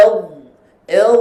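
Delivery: "L" as adh, the final dha held with breath stopped; held still dha. Shown as a demonstration. Teacher shows the still letter dha, breath held on "L". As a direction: close "L" on a sustained, unreleased dha. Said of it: "Matikan huruf dha".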